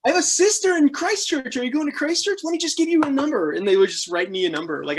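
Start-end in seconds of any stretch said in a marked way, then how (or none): 0.0-3.5 friendly local. Retold or imitated. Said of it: "They're like".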